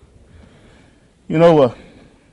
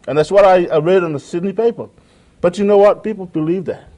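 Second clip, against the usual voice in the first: louder and higher, pressing the point; rising preacher's emphasis; 6 semitones higher, 5 dB louder than usual. Real, not acted. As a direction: lift the voice to drive it home. Preacher raising his voice.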